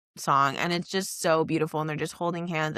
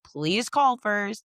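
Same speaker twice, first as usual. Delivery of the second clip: slow, higher, drawn-out request; pointed plea; 5 semitones higher, much slower than usual. Retold or imitated. Son asking parents to phone ahead, pleading. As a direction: retell a pleading request, stretching each word. Retold plea after being walked in on.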